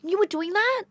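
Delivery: high-pitched, drawn-out amazement; impressed cousin. Retold or imitated. Cousin finding out it's so cool, high and amazed. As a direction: imitate an awed cousin, stretching the words. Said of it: "it just clicked and she goes".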